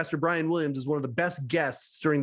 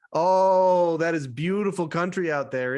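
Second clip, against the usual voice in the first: admiring; slower than usual. Retold or imitated. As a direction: imitate an impressed host admiring the place. Letterman admiring Mike's home in retold exchange.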